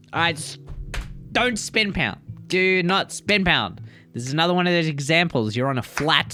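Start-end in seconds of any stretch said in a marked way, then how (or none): 1.3-3.8 high, deliberate emphatic scold. Real, not acted. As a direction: spell it out slowly, firmly.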